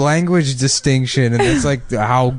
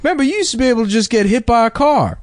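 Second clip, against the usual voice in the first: put-on higher, excited old-timer voice; old-timer impression; 10 semitones higher than usual. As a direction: ham up a nostalgic old comic. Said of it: "He's like".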